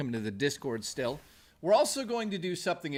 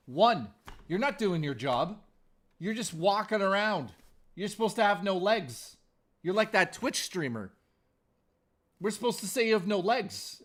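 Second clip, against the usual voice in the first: higher, teasing rant at a pet; mock scolding cat; 5 semitones higher than usual. Real, not acted. Streamer scolding his cat, mock-stern higher rant. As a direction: playfully chew out the cat.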